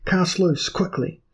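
high, loud frantic order; panicked cry. Acted. Frightened earl shouting to cast loose. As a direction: yell it in terror.

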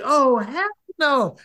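high, drawn-out mock refusal; appalled refusal. Woman seeing her date's duffel bag, hammed-up appalled refusal. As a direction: imitate a horrified no, stretched right out.

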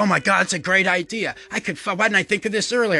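rushed, high, bursting with a new idea; manic excitement. Retold or imitated. Comic retelling his manic idea, hammed-up sudden excitement. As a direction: spill the idea out fast like a eureka. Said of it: "I get up on something and go".

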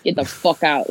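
mock-angry Bronx accent; irate Bronx local, winding down. Shown as a demonstration. Playing an angry New Yorker for laughs, Bronx accent. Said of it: "angry city accent".

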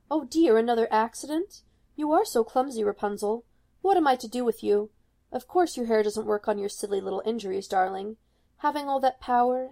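a lightly voiced mother, sugary and condescending; sweetly scolding mother. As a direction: scold her sweetly like a doting witch.

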